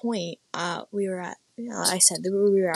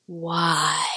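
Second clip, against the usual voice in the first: puzzled onlooker; much slower than usual. Retold or imitated. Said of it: "She looked at me like".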